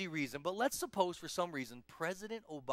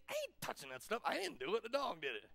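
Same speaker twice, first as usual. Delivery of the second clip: put-on balking kid; 4 semitones higher, 4 dB quieter than usual. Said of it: "and you think".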